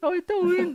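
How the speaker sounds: happy, lilting Cork accent. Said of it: "the Cork and everything's real happy".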